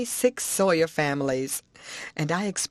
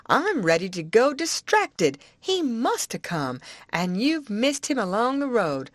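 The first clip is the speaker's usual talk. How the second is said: put-on higher, eager old-woman voice; Aunt Sally's voice; 5 semitones higher than usual. Aunt to the boy, eager old-woman voice. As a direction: coax the boy for all the news.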